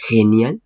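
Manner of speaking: "genial" en pregunta, con jota inicial; G como jota. Shown as a demonstration. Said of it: "seguiría escuchándose así". ("genial" con sonido de jota, como comprobándolo)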